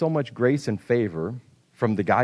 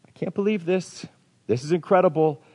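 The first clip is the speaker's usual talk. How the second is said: wonder; 5 semitones higher than usual. Acted. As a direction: marvel at it as if hardly believing. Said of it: "a sense of just wonder".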